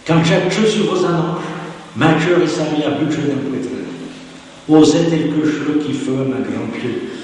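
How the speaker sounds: lively read-aloud of a rustic love letter. Acted. Lecturer reading the farmer's love letter aloud, lively. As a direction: read the suitor's letter with relish.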